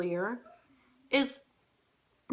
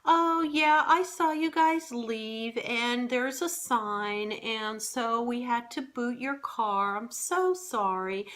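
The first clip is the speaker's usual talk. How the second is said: higher, slow, sugary apologetic voice; imitating the attendant; 3 semitones higher, slower than usual. Wife imitating the sweet booting guy, higher and slow. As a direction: lightly mimic an overly polite booter. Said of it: "And he goes".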